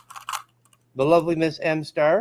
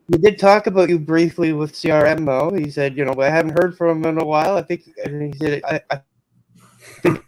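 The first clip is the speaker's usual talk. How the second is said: radio breaking up; 4 dB louder than usual. Real, not acted. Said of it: "You're breaking up, man".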